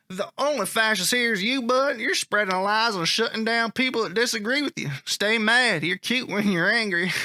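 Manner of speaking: lightly put-on Southern accent. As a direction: imitate a taunting Southern commenter. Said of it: "I'm gonna try that again".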